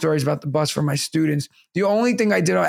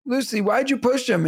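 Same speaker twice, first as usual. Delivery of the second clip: higher-pitched imitation of a concerned carer; daycare staff; 7 semitones higher than usual. Daycare worker asking a child about pushing, imitated carer. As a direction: question a small child, lightly acted. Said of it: "So they were like".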